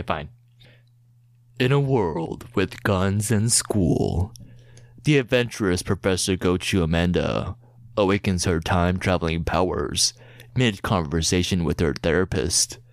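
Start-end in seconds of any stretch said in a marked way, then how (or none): 1.6-12.8 movie trailer voice. Acted. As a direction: sell the epic like a film trailer. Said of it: "you have to read it in a movie trailer voice".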